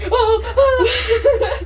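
high startled yelp; startled cry. Real, not acted. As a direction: jump at the scare. Startled at a scare.

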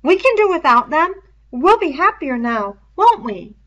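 anxious. Acted. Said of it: "sounded anxious".

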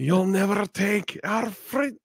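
high, slow, hammed-up bad Scottish accent. After a Scottish joke, a hammed-up bad Scottish accent. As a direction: belt it out in a badly faked Scottish accent. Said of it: "Plus, he's Scottish too".

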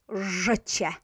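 "życie" with a hard zh opening; pronunciation demo. Shown as a demonstration. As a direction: model "życie", leaning on the buzzed first sound. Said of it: "Always pronounced in this way".

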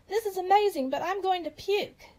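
high-pitched excited storybook yell; acted yell. A narrator's reading. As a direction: cry out high, stretching the end. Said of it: "yelled Davy".

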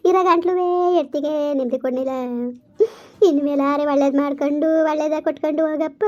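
keen over the dead son through tears; tearful lament. Acted. Mother weeps over dead son. (ಅಳುತ್ತಾ ಗೋಳಾಡುವ ತಾಯಿಯ ದನಿ)

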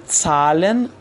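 زالن opening on "ts", as "tsalen". Shown as a demonstration. Teacher giving an example, زالن as "tsalen". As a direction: say زالن with t run into s. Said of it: "ت و س رو سعی کنید به دنبال هم سریع".

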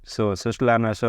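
"સ" said as an "s" sound; letter-sound demonstration. Shown as a demonstration. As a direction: model "સ" as in "સસલાના". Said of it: "સીનું સ ઉચ્ચાર થાય છે".

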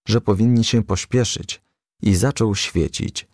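usual speaking voice

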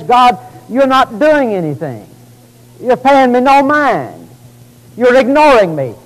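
high, insistent complaint; exasperated outcry. Retold or imitated. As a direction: accuse God of ignoring you. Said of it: "And I scream violence".

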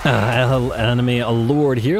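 hoarse, voice giving out. Real, not acted. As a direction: push words through a hoarse voice. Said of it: "losing my voice here".

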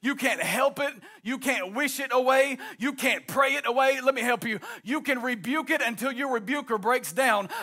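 rising, driving sermon cadence; preaching at full force. Acted. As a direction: preach it out over the organ. Preaching with music underneath.

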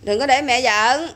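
slow, firm mother's warning; slow stern warning. Real, not acted. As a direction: spell out each word as a last warning. Mother warning stalling child.

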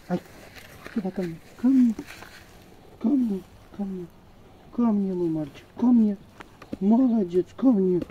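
loud, high calls to come here; calling a dog. Real, not acted. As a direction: call the dog back loudly. (громко подзывает собаку)

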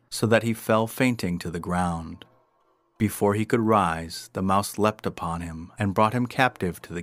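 measured, projected storyteller read; story narration. A narrator's reading. Narrator telling of cats and mice at war, storytelling. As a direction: narrate the old fable with clear emphasis. Reads a tale aloud.

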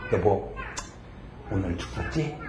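very soft, low aside to his wife; small, subdued voice; sheepish husband. Retold or imitated. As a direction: imitate a deflated husband, hushed.

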